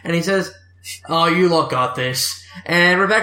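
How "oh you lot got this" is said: gruff Cockney. Acted. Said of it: "gruff Cockney".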